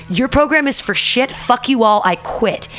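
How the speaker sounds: high-pitched re-enacted quitting rant; retold angry outburst. Student teacher phoning master teacher to quit, retold angry outburst. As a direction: fire it off as a mock tirade.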